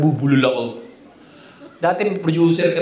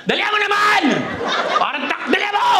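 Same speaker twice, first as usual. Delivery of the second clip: high, mocking wife voice, laughing; mock wife voice, pitched up; teasing wife; 11 semitones higher than usual. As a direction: tease him like a nagging wife.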